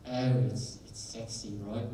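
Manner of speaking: lightly put-on British accent; chatty mock-British admirer. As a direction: slip into a casual British accent. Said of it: "a British accent".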